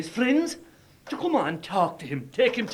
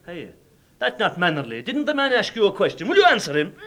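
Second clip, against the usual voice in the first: rising, louder reproach; stern scolding; 4 dB louder than usual. Acted. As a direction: scold the son for rudeness. Father scolds son.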